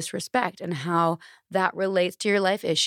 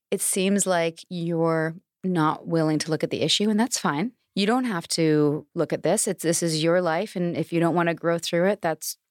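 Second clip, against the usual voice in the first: faux empathy. Shown as a demonstration. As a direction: soothe them like a coach, a little too patiently. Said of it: "Faux empathy".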